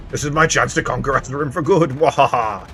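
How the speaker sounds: lightly voiced gloating villain; a hint of a dark lord's triumph.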